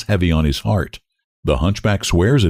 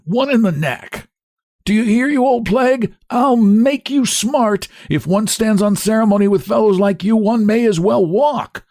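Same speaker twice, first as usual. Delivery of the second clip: much higher, shrieking hunchback abuse; indignant cry; 13 semitones higher than usual. Acted. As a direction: scream at the driver indignantly. Hunchback abusing driver.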